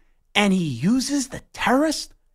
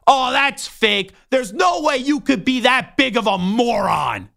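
disbelief. Retold or imitated. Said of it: "I go".

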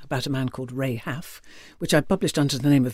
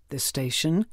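"this station" rising, more to follow; mid-list inflection; 3 dB quieter than usual. Shown as a demonstration. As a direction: leave "this station" open with a lifted ending. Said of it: "three different inflections".

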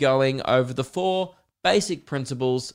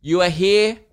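stern teacher; 5 semitones higher than usual. Pretend. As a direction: lay down the law to the class. Teacher lecturing silent class.

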